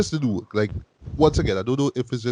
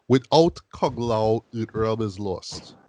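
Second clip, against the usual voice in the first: mock solemn line; slower than usual. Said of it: "Lu drop a line where he says".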